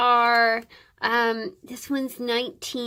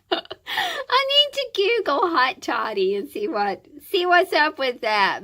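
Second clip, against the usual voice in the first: laughing; 3 semitones higher, 3 dB louder than usual. Real, not acted. Laughs at not knowing the recipe.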